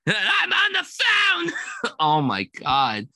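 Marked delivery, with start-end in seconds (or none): 0.1-1.5 very slow and much higher, dragging every word; slurred drugged voice. Retold or imitated. Drugged man fighting to talk on the phone, slurred and slow. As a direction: slur it like a man who can barely move his mouth. Quoting the paralysis scene.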